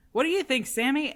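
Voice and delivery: a hint of the bear asking Sammy; Henry quoting. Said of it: "goes to Sammy and says".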